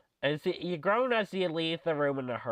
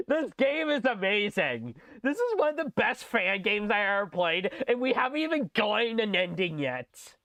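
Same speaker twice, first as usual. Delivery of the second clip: hammed-up lament; 6 semitones higher than usual. Hammed stage line then excitement.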